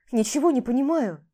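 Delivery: громче, растерянный возглас; вскрикни в недоумении; растерянно. Acted. (растерянно и громче)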